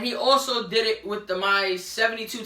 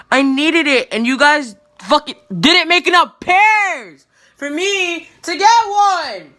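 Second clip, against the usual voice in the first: loud, higher, building furious yell; yelling rant; 4 semitones higher, 10 dB louder than usual. Real, not acted. Yelling at Nike over sneakers they didn't make enough of, furious. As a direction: shout it at Nike in outrage.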